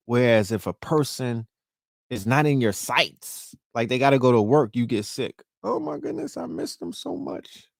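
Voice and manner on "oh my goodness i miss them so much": high breathy lovesick swoon; lovesick sigh. Retold or imitated. Lovesick partner pining for bae, high swooning voice. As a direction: swoon over a missing partner, high and airy.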